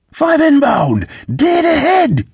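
very high, urgent lookout's yell; shouted warning. A narrator's reading. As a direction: cry out the incoming danger. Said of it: "the All-in-Man shouted".

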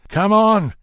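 loud, high battle cry; shouted. A narrator's reading. Bill over the beaten robbers, shouting loud and high. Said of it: "he shouted".

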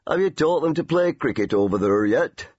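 a hint of a gruff old Lancashire grandad; teasing grandad. Grandad teasing his Yorkshire grandsons, mildly gruff. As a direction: tease the boy lightly, grandad-style. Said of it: "Grandad in his chair would say".

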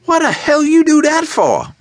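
high, loud shrieking gangster; a thug shrieking at his partner. A narrator's reading. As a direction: shriek at him in shock. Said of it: "Gold shrieked at Duvan".

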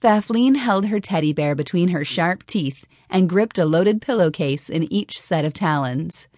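usual speaking voice

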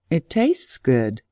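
slow, faraway, entranced voice; dazed, dreamy man. Acted. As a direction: say it as if under a spell. Man eating mysterious strawberry.

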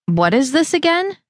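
talking with nose pinched shut. Acted. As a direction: speak while holding the nose. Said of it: "as she pinched her nose".

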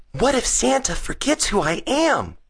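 put-on very high, anxious child voice; worried cry. A narrator's reading. Gus nervous about seeing Santa, worried high cry. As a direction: cry it out as a fretful boy. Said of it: "he cried".

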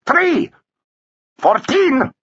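high, abrupt bidding cries; yelping auction calls; called bids. A narrator's reading. Rival bidders calling out.

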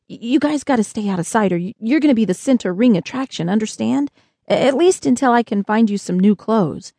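put-on urgent, stammering boy; lightly voiced Josh. Boy telling spacemen to hide, mildly urgent. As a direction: warn them with a slight stumble.

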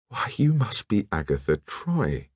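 dawning, murmured recognition; sudden realisation. A narrator's reading. Alain recognising Agatha Troy, sudden realisation. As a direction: let the name dawn on you. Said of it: "murmured Alain suddenly".

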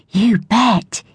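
exclaiming. A narrator's reading. Evie eagerly accepting friends' invite. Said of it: "Evie exclaimed".

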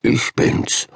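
soft, breathy whisper to the penguins; hushed whisper to a penguin colony; quiet whisper. A narrator's reading. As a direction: whisper the greeting gently. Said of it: "begann leise zu sprechen".

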